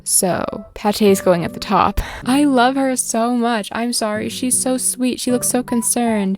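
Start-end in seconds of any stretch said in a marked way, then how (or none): 2.2-6.4 gushing. Real, not acted. Gushing over villager.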